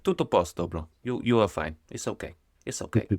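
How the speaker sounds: light imitation of an Italian doctor's English accent. X-ray staff in Italy reassuring him, in a mock Italian accent. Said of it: "You remember the accent, eh?".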